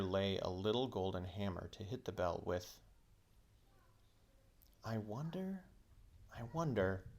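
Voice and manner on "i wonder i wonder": musing. Acted. Diggory muses over the bell.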